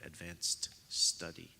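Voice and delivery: "Advanced study" said slowly, each vowel spelt out with care; "Advanced study" carefully shaping the diphthongs; careful pronunciation. Shown as a demonstration. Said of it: "I have problems on that show saying advanced study".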